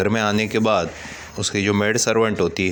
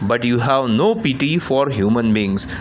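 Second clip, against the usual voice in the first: raised angry voice, higher pitch; loud; 3 semitones higher, much slower than usual. Acted. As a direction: throw it at the whole family. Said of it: "ज़ोर से बोलता है".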